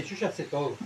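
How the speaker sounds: lightly voiced smug fool; a hint of the proud fool brushing off advice; understated mock boast of the fool; mock know-it-all fool. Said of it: "El necio dice".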